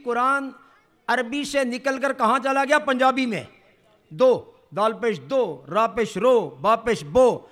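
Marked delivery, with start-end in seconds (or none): 4.1-7.4 دو رو بو with a Punjabi o; Punjabi vowels. Shown as a demonstration. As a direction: spell out دو رو بو slowly, Punjabi style. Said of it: "یہ پنجابی ہے". (پنجابی انداز میں دو رو بو)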